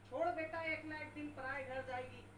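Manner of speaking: a hint of a resigned father's cliché; old father's dialogue. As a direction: sigh it like a tired old dad. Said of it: "ढाई सौ साल पुराना dialogue मारा".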